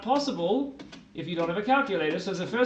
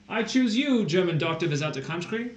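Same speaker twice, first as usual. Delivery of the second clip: Pokemon trainer call. Pretend. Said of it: "That sounds like a Pokemon".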